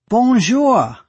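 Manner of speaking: high, loud braying into a phone. Acted. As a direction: bray it out, slow and loud.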